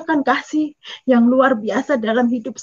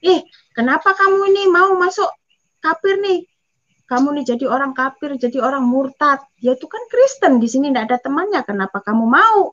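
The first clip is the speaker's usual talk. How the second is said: scolding neighbour women. Retold or imitated. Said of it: "semua orang tuh bilang".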